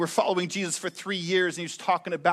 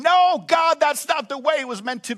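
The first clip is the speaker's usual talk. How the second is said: higher, louder pleading cry; grieving mother crying out to God; anguished cry; 7 semitones higher, 4 dB louder than usual. Retold or imitated. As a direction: cry out against the loss. Grief over miscarriage.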